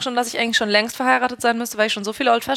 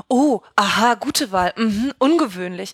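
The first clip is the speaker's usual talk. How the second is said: condescending bartender. Retold or imitated. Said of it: "Die sind immer so".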